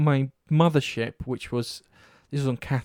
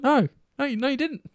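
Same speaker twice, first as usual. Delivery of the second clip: high-pitched teasing retort; playful, exaggerated gloat; mock gloating; 12 semitones higher than usual. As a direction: crow it back at the loser, pitched way up. Retelling own gloating reply.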